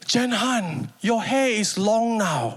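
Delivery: frail grandma. Retold or imitated. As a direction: speak slowly like a dazed old woman. Grandma voiced waking.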